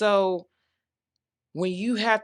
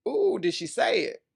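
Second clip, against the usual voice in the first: sassy hype; 4 semitones higher than usual. Acted. Hyping her own bold line.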